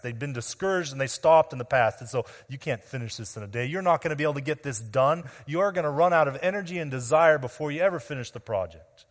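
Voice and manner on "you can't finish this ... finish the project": quick, lightly mocking prediction of failure; brisk, mildly needling enemy's jab; stinging taunt. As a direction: rattle off the taunt to discourage them. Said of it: "that one stings".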